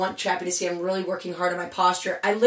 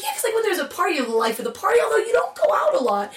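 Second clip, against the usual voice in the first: imitating Gina; 10 semitones higher, faster than usual. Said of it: "she's like".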